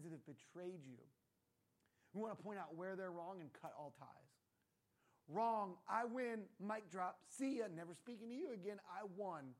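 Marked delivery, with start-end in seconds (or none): 5.3-9.5 loud, punchy gloating; hammed-up argument winner; mock triumphant. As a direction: declare victory and shut them down. Acted mock victory in an argument.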